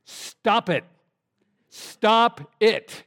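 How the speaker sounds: sudden, punchy retold shout; mock shout. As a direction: imitate a comedian shouting an order. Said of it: "and then he shouts".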